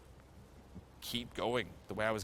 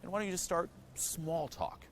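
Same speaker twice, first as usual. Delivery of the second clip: higher, sing-song self-coaxing voice; higher pitched, mock encouraging inner voice; 10 semitones higher than usual. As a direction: talk yourself into it like a gentle coach. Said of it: "I'm like".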